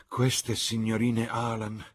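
a mother crying out her dislike; lifted, loud outburst; outcry. A narrator's reading. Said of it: "gridò la signora Honeychurch".

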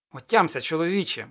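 usual speaking voice

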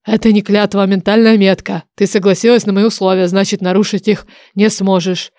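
a hint of a dragon oracle; apologetic dragon oracle. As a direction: apologize as an ancient voice in someone's head. Oracle explains the mark.

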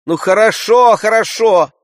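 impatient. A narrator's reading. Oblomov getting rid of Tarantyev, loud impatient brush-off. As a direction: wave him away impatiently. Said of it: "с нетерпением говорил Обломов".

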